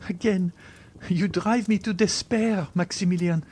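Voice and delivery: put-on high-pitched, wounded young woman; distressed heroine, very high voice; despairing Valentine. A narrator's reading. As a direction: cry out the reproach, high.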